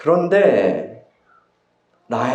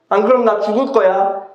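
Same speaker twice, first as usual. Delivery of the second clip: angry threat; 6 semitones higher than usual. Acted. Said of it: "라헬의 분노가 폭발합니다".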